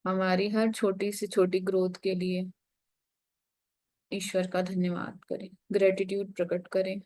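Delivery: unhurried meditation guidance with long pauses; guided meditation. Real, not acted. Meditation teacher leading the group into breath and gratitude, guided meditation. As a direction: guide them gently inward, pausing between phrases.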